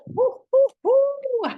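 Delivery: high, loud whooping cheers; excited whoops. Acted. Friend offered popcorn and chocolate, whooping with delight. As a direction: whoop with delight over the treat.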